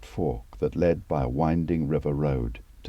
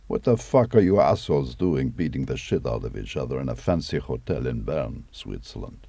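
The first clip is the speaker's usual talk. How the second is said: a gruff Russian dressing-down, a bit louder; mock Kremlin scolding; 3 dB louder than usual. The speaker mimicking the Kremlin's call, mock angry. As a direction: bark it like an angry boss. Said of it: "Kremlin called the bitch prince".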